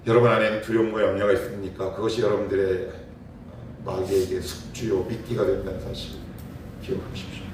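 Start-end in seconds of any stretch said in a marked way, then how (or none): none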